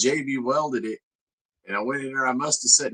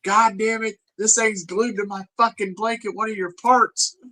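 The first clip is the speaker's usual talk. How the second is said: put-on girlfriend bitching; 9 semitones higher than usual. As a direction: imitate her griping in a high pitched voice. I heard her in there bitching.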